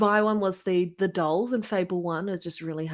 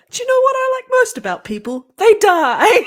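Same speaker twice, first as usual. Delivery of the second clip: high, loud sneering creature; gargoyle voice; 9 dB louder than usual. Acted. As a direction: cackle it like a nasty gargoyle. Joke about bringing gargoyles to stream.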